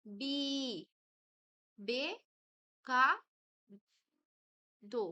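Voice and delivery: বি, বে, কা, দো each said alone with long pauses; drawn-out open syllables. Shown as a demonstration. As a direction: hold the vowels in বি, বে, কা, দো, one at a time. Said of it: "এগুলোকে আমরা টেনে উচ্চারণ করতে পারবো". (বি, বে, কা, দো টেনে আলাদা করে বলা)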